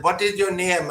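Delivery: clumsy put-on American accent; bad American accent. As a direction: imitate a caller badly faking American. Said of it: "trying to do it in an American accent".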